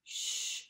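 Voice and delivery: "Shh" hushed, breath only; a long quiet shush; shh sound. Shown as a demonstration. Teacher modelling the sh sound for kids, hushed. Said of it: "S H says".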